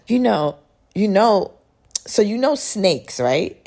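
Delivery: a friend bursting to share a secret; eager friend. Retold or imitated. Friend telling her she loves snakes, high eager voice.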